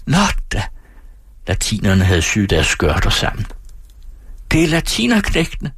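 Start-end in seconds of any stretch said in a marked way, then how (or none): 0.0-0.6 restrained narrated squeal. A narrator's reading. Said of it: "Pigerne hvinte". 4.5-5.7 mock yell at narration volume; yelling louts. A narrator's reading. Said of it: "skreg et par lømler fra borgerskolen".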